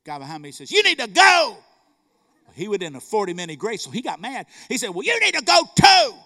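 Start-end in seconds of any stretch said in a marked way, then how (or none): 0.7-1.6 high, loud holler; acted shouted order. Man in line telling the clerk, high shout. 4.9-6.2 high, loud shout back; acted angry retort. Mad clerk answering the man in line, high shout.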